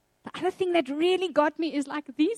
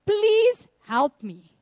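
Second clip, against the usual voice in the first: desperate plea; 3 semitones higher, slower than usual. Retold or imitated. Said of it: "I just said to God".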